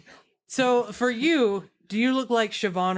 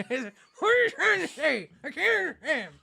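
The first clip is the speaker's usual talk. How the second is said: lightly nasal confused thief; mildly raised bandit whine; 5 semitones higher than usual. Acted. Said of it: "he's like".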